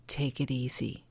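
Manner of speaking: hushed self-soothing murmur; soothing whisper. Shown as a demonstration. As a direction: whisper it to yourself like a calming reminder. Coaching self-care, then whispered.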